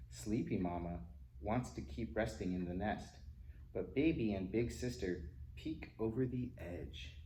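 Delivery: ordinary delivery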